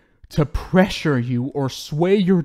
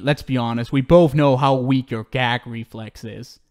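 normal talking voice

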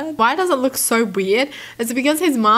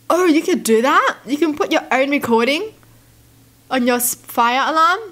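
surprised; 4 semitones higher than usual. Real, not acted. Learns of recordable fire alarms.

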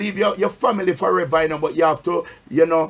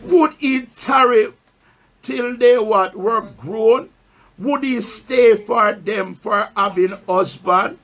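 slow, raised reading of the Bible verse; solemn pulpit Bible reading; scripture reading; slower than usual. Acted. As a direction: read the verse slowly to the church, pausing for answers. Preacher reads scripture aloud.

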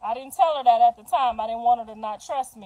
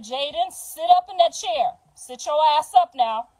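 stern; 3 semitones higher, 4 dB louder than usual. Retold or imitated. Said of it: "she gets stern with you".

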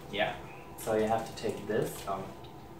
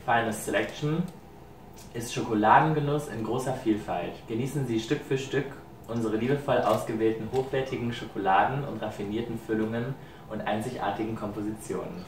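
native German. Shown as a demonstration. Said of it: "Can you read it so that they know exactly".

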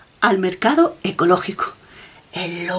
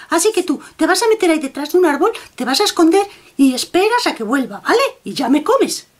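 higher, chatty bossy bunny; little rabbit voice; 7 semitones higher than usual. Acted. Red rabbit telling the wolf how to ambush, higher and chatty.

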